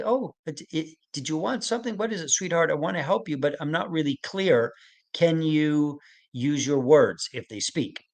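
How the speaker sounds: gentle loving voice. Shown as a demonstration. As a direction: gently coax the child to use words. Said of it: "So I'm being gentle, I'm being loving".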